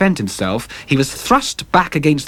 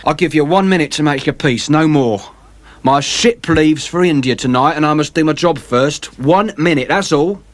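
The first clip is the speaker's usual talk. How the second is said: vengeful sailor; 4 semitones higher, 3 dB louder than usual. Acted. James Vane threatens.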